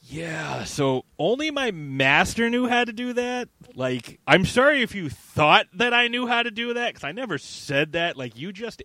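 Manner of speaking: high-pitched, put-on innocence; mock evasive excuse. Palpatine acted as dodging his promise.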